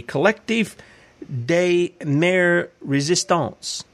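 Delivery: slow, careful French accent on the names; drawn-out French pronunciation of des Maires Resistants; mock French accent, spoken slowly. Shown as a demonstration. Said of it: "Is that pretty close for a French accent?".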